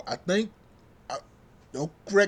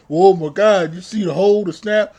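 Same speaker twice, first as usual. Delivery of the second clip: mock excited fans; 8 dB louder than usual. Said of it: "And people say".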